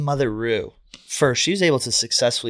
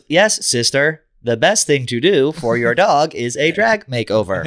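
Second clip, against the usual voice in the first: louder, sassy diva voice; sassy drag queen; 3 semitones higher, 6 dB louder, slower than usual. Retold or imitated. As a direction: gush it like a fabulous queen. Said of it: "It goes".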